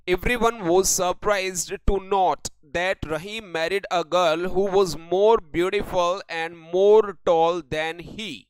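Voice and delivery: reads each word out very slowly for copying; slow dictation reading. Shown as a demonstration. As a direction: spell out the sentence word by word like dictation. Dictating an example sentence.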